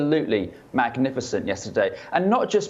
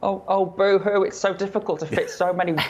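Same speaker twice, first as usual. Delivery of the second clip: mock a colleague moaning about too many stars; teasing parody of a whiny pundit; mock whining impression; 5 semitones higher than usual. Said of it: "Was that an impression of me?".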